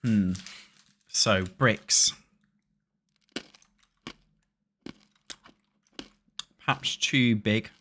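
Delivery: talking while chewing; chewing noisily. Real, not acted. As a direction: mouth full of food. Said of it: "I'm sorry I'm eating".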